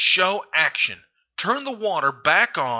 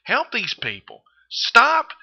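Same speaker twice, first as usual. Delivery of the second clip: calling out; 7 semitones higher, 4 dB louder, slower than usual. Retold or imitated. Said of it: "I'm calling you out and saying".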